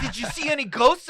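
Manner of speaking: put-on high, prying old-lady question; nosy grandma asking about ghosts. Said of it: "That's what my grandma is like".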